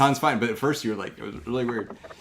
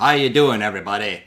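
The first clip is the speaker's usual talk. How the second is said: mild mimicry of an odd greeting; imitated weird voice; 6 semitones lower than usual. Teasing Steve about his first greeting, lightly imitating. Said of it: "it's like you were doing a voice".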